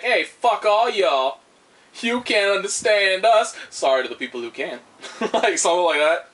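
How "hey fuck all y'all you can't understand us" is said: slow, higher mock jeer; mock taunt. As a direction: jeer slowly as if nobody understands you. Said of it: "just like".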